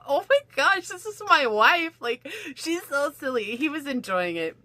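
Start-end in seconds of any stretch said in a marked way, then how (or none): 0.1-3.5 high, fond husband voice; high, loving husband laughing off the mess; delighted husband. Retold or imitated. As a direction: sound charmed by your silly wife. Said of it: "He was just like".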